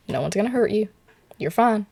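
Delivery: easy, lifted "don't worry" tone; retold reassurance. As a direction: imitate a friend reassuring someone. Friend reassuring her, retold.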